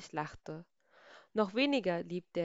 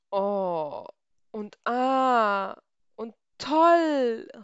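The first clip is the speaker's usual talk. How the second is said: rising, louder and louder cries of wonder; delighted crowd cries; 4 semitones higher, 9 dB louder, much slower than usual. A narrator's reading. Crowd admiring the rainbow, building excited calls. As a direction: people marvel at the rainbow, calling out ever higher. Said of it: "riefen die Leute und lachten".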